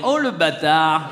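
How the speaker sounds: drawn-out "Oh, le bâtard!" with a laugh; fake-offended, slow and laughing; slow, amused mock insult; mock outrage. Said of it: "j'ai envie de dire".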